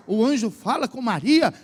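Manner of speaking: usual speaking voice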